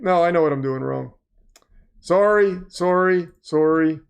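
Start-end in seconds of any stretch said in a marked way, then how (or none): 2.0-4.0 a hint of Canadian in each "Sorry"; lightly Canadian "Sorry", repeated as separate words; Canadian-style sorry. Streamer apologising for his mistake, lightly Canadian sorry. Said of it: "I'm not Canadian. I just like to say sorry".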